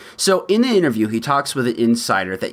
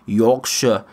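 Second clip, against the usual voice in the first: attempted Yorkshire pronunciation; Yorkshire accent. Shown as a demonstration. Naming the unwanted accent in an attempted Yorkshire accent. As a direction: have an unsure go at Yorkshire. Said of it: "I don't know if that was Yorkshire".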